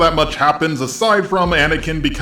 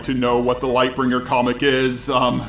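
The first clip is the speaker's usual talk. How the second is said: flat robot voice, softer; 3 dB quieter than usual. Acted. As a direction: speak like a robot announcer. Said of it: "in the robot voice for the second time".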